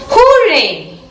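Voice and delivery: lightly acted cry of happiness; happy cheer. Teacher reads the child's joy at visiting grandfather, happy cheer. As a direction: cheer a mild, happy hooray. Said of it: "word to express our happiness".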